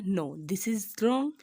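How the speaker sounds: drawn-out, emphatic wrong; teacher slowly marking an answer wrong; slow verdict. Shown as a demonstration. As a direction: stretch "wrong" slowly with a rising end. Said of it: "तो मैं कहूँ कि क्या ये ठीक है?".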